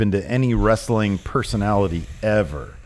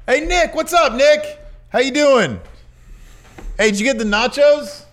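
calling out. Real, not acted. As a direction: hail him from a few seats away. Calling to friend Nick nearby.

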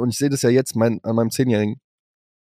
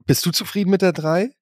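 neutral question; 4 semitones higher than usual. Shown as a demonstration. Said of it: "da kannst du halt auch schon im Ton".

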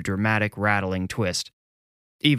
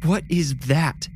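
slow, higher, insistent question; demanding; 7 semitones higher, slower than usual. A narrator's reading. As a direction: demand an answer, shocked. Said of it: "Callie demanded".

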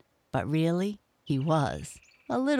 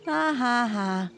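a lightly voiced hippo's ha ha ha; hearty laugh; 8 semitones higher than usual. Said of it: "Chunky laughed again".

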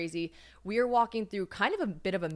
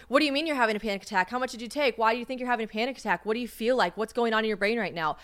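rapid-fire panicky questions, pitched up; mock interrogation; 3 semitones higher, 3 dB louder, much faster than usual. Imitating the alarmed friend she didn't get, rapid mock interrogation. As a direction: fire off questions one after another.

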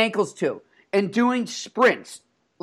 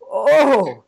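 laughing, lightly voiced Czech accent, a bit higher; imitating Jagr's Czech accent; 4 semitones higher, 4 dB louder, slower than usual. Reporter retells the player greeting him, laughing Czech accent. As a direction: quote the star through a laugh in a hint of Czech accent. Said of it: "He goes".

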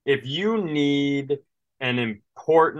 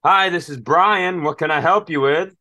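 phone agent; 3 semitones higher, 4 dB louder than usual. Retold or imitated. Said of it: "he goes".

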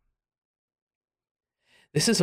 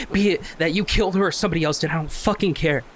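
rising, faster, bitter reproach; heated confrontation; 5 semitones higher than usual. Acted. Jay confronting Lizzie over years of silence, bitter and rising. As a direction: push back hard at her.

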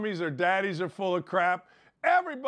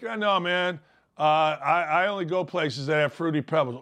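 lightly voiced lazy recruit; 4 semitones lower than usual. Voicing recruit.

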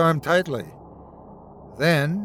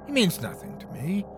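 higher-pitched, understated scorn; lightly acted chiding retort; 4 semitones higher, 4 dB quieter than usual. A narrator's reading. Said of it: "he chided".

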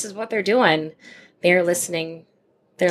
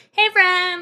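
put-on higher, bright hello to an old friend; cheery greeting voice; 11 semitones higher, 3 dB louder than usual. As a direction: greet them like an old pal.

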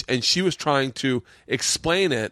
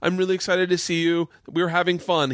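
higher-pitched imitation of a pleading fan; embarrassed fan; 5 semitones higher than usual.

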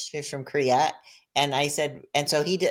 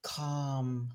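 put-on soft, slow repeated word in a light Korean accent; soothing acupuncturist; 2 semitones lower, 9 dB quieter than usual. The Korean acupuncturist calming the patient at session end, soft Korean accent. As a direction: lull her like the Korean acupuncturist. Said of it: "And he goes".

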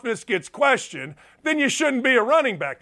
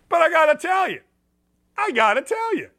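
emphatic; 6 semitones higher, faster than usual. Real, not acted. Emphatic repeated point.

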